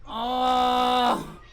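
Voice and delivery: long, drawn-out groan; strained groan. Real, not acted. Streamer stuck in yoga pose, strained groan. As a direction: groan with the effort.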